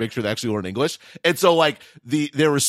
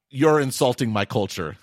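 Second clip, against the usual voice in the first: mock offended. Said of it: "sort of, uh, issue".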